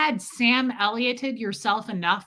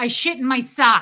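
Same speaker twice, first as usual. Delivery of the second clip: imitated Brooklyn accent; 6 dB louder than usual. Telling a story about a man from Brooklyn, copying how he talks: imitating his Brooklyn accent. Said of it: "I totally did his accent".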